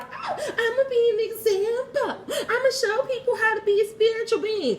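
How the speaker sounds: high, laughing mock-grand voice; laughing mock boast; mocking her soul. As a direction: parody her eager soul. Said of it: "She wanna come down here and be like".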